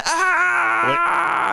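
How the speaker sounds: high anguished yell at the sky; shouting. Retold or imitated. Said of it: "il tire dans le ciel en criant".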